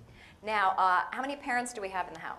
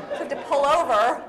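louder, higher, through laughter; laughing while talking; 6 semitones higher, 11 dB louder than usual. Real, not acted. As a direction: keep laughing as you say it. Laughing while telling the story.

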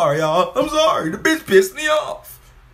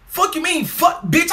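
higher, shouted curse; angry outburst; 7 semitones higher, slower than usual. Real, not acted. Reacting to the video, shouting in anger. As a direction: yell at the screen.

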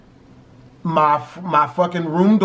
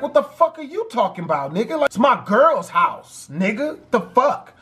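higher-pitched mock indignation; raised pitch, imitating a challenged boyfriend; retold indignation; 5 semitones higher than usual. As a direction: act out an intruder answering back, affronted. Retold intruder answers back indignantly.

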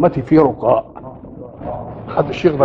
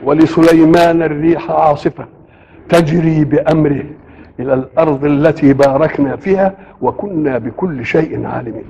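Quran recitation. Acted. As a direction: draw out each word of the verse.

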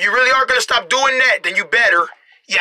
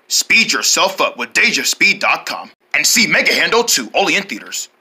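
low movie-ad announcer; pretend promo read; 5 semitones lower than usual. Announcer plugs Mega Handle two, low promo read. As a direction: deliver it as a film plug.

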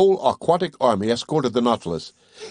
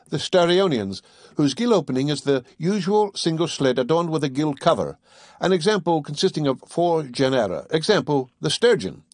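raised, precise lecturing voice; scholarly Conseil; 4 semitones higher than usual. Acted. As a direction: recite it like a tidy young scholar. Conseil reciting the classification.

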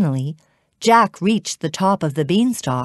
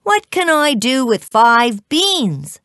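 put-on higher-pitched, doubtful boy; puzzled question; 7 semitones higher, 3 dB louder than usual. A narrator's reading. Jack asks the man about beans, puzzled. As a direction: question the odd offer.

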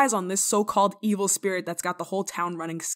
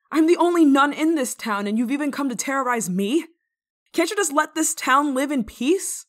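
loud, raised scolding call into the dark; louder scolding shout, higher pitch; calling out sternly; 4 semitones higher, 6 dB louder than usual. Acted. Scolding an unseen intruder loudly.

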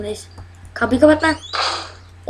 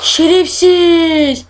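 Şerefsiz stretched out very slow, a bit higher and louder; drawn-out curse; 4 semitones higher, 4 dB louder, much slower than usual. Real, not acted. Gamer cursing the monster that found him, long drawn-out curse. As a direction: drag out Şerefsiz slowly, fed-up groan. Monster arrives at hiding spot.

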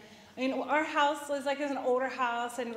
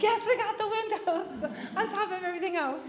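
much higher, bubbling with laughter; laughing answer; 9 semitones higher, 3 dB louder than usual. Retold or imitated. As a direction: answer while cracking up. Laughing reply to women's group.

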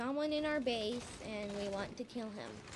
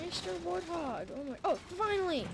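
excited calling out; 6 semitones higher than usual. Real, not acted. Calling out for the vehicle.

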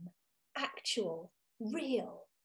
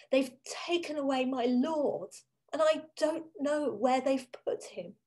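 faltering voice; 3 semitones higher than usual. Acted. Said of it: "In a faltering voice".

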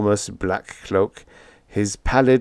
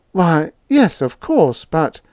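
much higher, caught off guard and stammering; higher flustered landlady; 9 semitones higher, 5 dB louder, slower than usual. A narrator's reading. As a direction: fumble it, taken aback.

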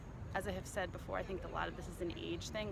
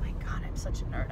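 whispering; 6 semitones lower, 7 dB louder than usual. Real, not acted. Self-mocking aside.

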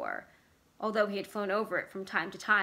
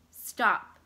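loud, urgent cry to stop; Vicky ordering Bert to stop, loud; sharp stop; 6 dB louder than usual. Acted. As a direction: bark it out to halt the car. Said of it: "Vicky said".

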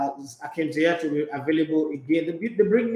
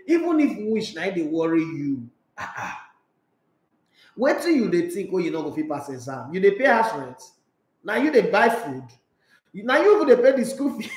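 Nigerian mother scolding. Retold or imitated. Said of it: "my mother go say".

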